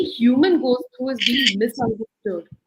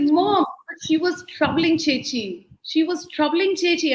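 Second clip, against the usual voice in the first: little daughter's voice; 5 semitones higher than usual. Retold or imitated. Lightly voiced daughter explaining herself to mom. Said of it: "And she said".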